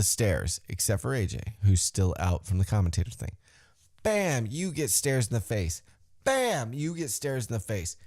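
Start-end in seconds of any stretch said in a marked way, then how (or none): 4.0-4.5 impact exclamation. Retold or imitated. Imitates stairs impact. 6.2-6.7 high, falling mock hit noise; impact exclamation. Fan recapping everyone hit with stairs, exclaimed impact.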